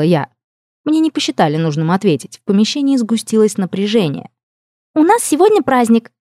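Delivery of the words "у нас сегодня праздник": higher, louder bright princess voice; cheerful princess. Acted. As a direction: burst in high and festive. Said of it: "неожиданно вмешалась принцесса".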